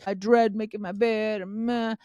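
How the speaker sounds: a grudging, sulky groan about chores; mock dread. Mom mimics herself dreading bed-making, grudging. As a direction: drag it out like you hate it. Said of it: "It's not like this".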